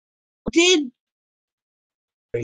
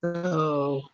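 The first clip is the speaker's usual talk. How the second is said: put-on Aussie accent. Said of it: "I don't know why I'm doing this accent".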